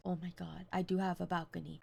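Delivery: breathless scared whisper. Retold or imitated. To her friend in the room, frightened whisper. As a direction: hush it like someone might hear.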